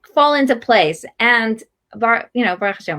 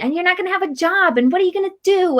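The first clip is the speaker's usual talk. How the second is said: negative naysayer; 6 semitones higher, faster than usual. Retold or imitated. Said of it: "all this negativity".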